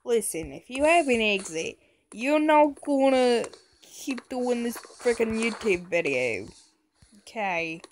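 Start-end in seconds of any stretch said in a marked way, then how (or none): 0.0-6.5 louder, badly faked New York accent; garbled New York accent. Player warning about the YouTube video, wobbly New York accent. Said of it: "I don't know where this accent came from. It started New Yorkin".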